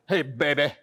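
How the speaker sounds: lightly voiced low flirt; player pick-up line. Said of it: "a player".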